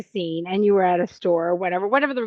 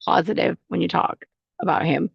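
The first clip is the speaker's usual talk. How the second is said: mom's advice; 6 semitones lower than usual. Retold or imitated. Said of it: "I could just hear her just like".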